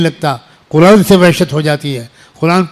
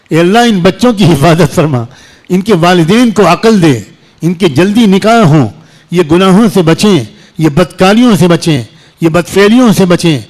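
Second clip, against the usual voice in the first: earnest pleading prayer, rising and insistent; fervent prayer. Retold or imitated. Preacher reenacts his nightly prayer for the youth, fervent pleading. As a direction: beg God for the young as in private prayer. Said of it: "تو میں کہتا ہوں".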